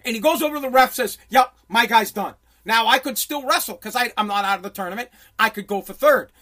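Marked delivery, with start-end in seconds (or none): 1.3-2.3 loud, slow retold verdict; pissed-off coach. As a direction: imitate a coach firmly pulling a wrestler. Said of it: "He was pissed".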